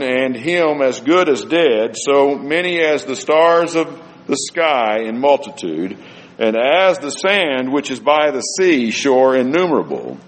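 scripture reading. Acted. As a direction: lift the voice for the sacred text. Reading Hebrews aloud.

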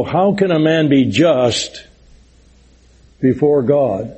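slow, weighty reading of Job's question; preacher slowing to read Job's question; solemn slow quote. Shown as a demonstration. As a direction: lay each word down slowly, like scripture. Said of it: "Job asked in the long ago".

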